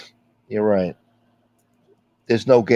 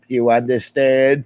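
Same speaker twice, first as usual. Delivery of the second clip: mock threat; 2 semitones higher than usual. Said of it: "He's like".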